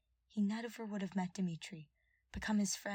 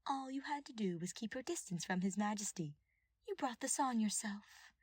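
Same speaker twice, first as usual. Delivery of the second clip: lightly voiced scheming advisor; 4 semitones higher than usual. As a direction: purr it like a gloating schemer. Villain advisor voiced in story.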